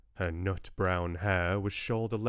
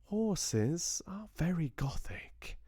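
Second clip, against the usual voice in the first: higher, slow, stubborn insistence; mildly obstinate Southern lady; 10 semitones higher, slower than usual. Acted. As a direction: refuse to back down. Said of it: "said Georgia obstinately".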